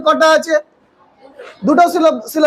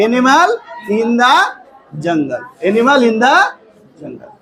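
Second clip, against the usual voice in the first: slow dictation; 3 semitones lower, much slower than usual. Real, not acted. Dictating sentence ending while writing.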